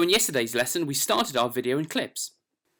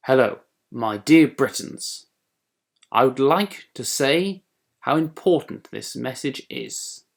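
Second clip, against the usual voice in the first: mock formal speech address; 6 dB louder, slower than usual. Shown as a demonstration. Demo speech recorded in Clips.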